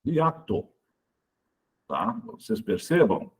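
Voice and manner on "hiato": "Hiato" split into its syllables. Shown as a demonstration. Teacher splitting a word for the class, syllable by syllable. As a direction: say "Hiato" with each vowel in its own syllable. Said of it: "se você separar as sílabas da palavra hiato".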